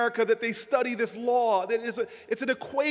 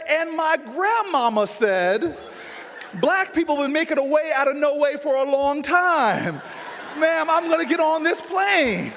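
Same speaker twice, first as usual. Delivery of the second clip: raised, laughing insistence over the counter; loud insistence; 2 semitones higher than usual. Retold or imitated. To the airline agent, a loud laughing ethnic insistence. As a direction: belt it out half laughing, getting ethnic. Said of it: "she rolled her eyes".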